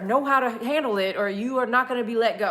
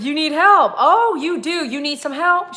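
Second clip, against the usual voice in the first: excited coaxing; 4 semitones higher, 5 dB louder than usual. Retold or imitated.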